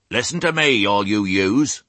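high-pitched address to a crowd; rustic ewe calling for attention. A narrator's reading. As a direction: raise your voice to the whole flock. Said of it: "Raising her voice".

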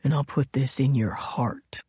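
low, menacing whisper; cold whisper. A narrator's reading. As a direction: whisper the threat coldly. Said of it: "he said coldly".

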